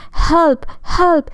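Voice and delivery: high, panicked calls for help; frightened cry for help. A narrator's reading. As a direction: cry out as a fleeing little pig. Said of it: "he cried".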